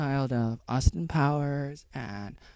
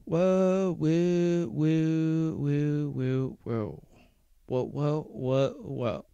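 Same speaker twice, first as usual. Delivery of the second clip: drawn-out whoas; much slower than usual. Pretend. Playful wordless falling noise.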